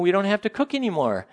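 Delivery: high-pitched mock celebration; hammed-up commercial delight; all excited. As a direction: sing out the joy, easing off. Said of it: "it's all exciting".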